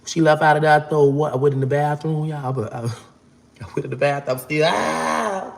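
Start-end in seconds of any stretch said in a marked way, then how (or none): 4.7-5.5 mock scream. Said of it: "I'm screaming".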